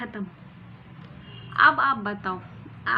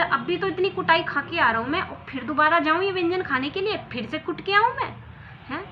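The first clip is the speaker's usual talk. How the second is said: loud, high protest; husband protesting he won't be beaten again; indignant outburst; 5 semitones higher, 4 dB louder than usual. Acted. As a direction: complain loudly and high. Husband protesting loudly in quarrel.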